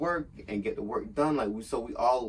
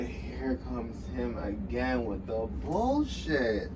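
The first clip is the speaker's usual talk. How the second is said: exasperated; much slower than usual. Retold or imitated. Groaning at boss's arrival.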